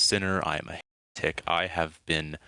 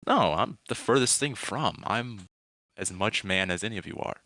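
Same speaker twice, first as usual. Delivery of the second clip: oddly friendly captain; 2 semitones higher than usual. Acted. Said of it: "oddly friendly voice".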